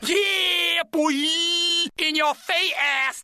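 triumphant yell. Acted. Celebrating after verdict.

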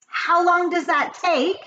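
high-pitched, drawn-out query; high, slow witch voice; eager witches' question. A narrator's reading. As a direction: ask like an avid follower. Eager witches question their leader.

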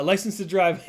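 loud, over-the-top announcement with a laugh; dramatic reading. Acted. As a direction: boom it out like big news. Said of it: "didn't mean to be so dramatic".

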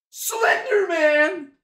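loud, high, slow startled cry; mock fright. Real, not acted. Streamer spotting a shape in the video, mock startled cry. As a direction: call out the monster behind him.

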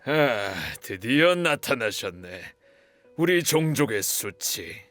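sneering greeting. Acted. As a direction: savour the contempt, taking your time. Bully sneers at the runaway.

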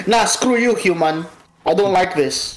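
put-on a touch of Jamaican accent. A picky cat turning down its human, lightly Jamaican accent. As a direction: slip lightly into a Jamaican lilt. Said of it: "why is it Jamaican".

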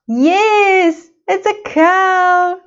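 excited praise. Real, not acted. Excited answer to child.

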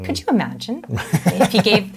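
laughing. Real, not acted. Coach laughing with listener at the silly demo, laughing. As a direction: break into laughter while talking.

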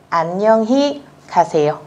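very slow, syllable by syllable Korean; slow model reading. Shown as a demonstration. Teacher reading slowly to students. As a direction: spell it out slowly for learners. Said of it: "các bạn đọc là".

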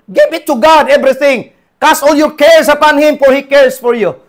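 high, loud preaching cry; fervent exhortation. Real, not acted. Preacher urges the church to give everything to God, loud. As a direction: urge them with all your voice.

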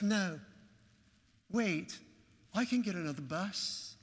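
imitated British accent, earnest plea; halting mock-British request, lifting at the end; pronounced British accent. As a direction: plead politely in a put-on British accent. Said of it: "he had this pronounced accent".

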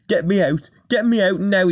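panicked shout. A narrator's reading. Rheneas wants out of the tunnel, panicked shout. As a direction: beg urgently, climbing in pitch. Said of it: "he shouted".

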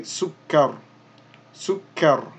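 "sukkar" ending on the r, ending dropped; pausal sukkar. Shown as a demonstration. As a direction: stop "sukkar" on the r. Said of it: "won't be pronouncing this last dhammatan".

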